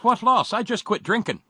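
punchline shout. Retold or imitated. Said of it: "And Paddy says".

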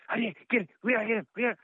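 a hint of a coked-up deputy; hyped-up deputy. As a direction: play the wired deputy, lightly. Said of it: "All hyped up".

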